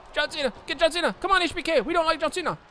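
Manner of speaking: crowd-style heckling. Real, not acted. Gamer chanting against John Cena like a fan.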